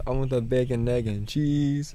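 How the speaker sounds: put-on slow, drawn-out New York accent. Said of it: "Ninja Turtles / New York accents".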